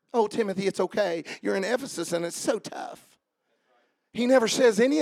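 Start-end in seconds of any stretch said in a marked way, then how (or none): 0.1-3.0 soft mock-soothing, trailing quieter; lightly hammed-up comforting; mock coddling. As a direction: pretend to baby someone with sympathy. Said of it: "He never coddles him".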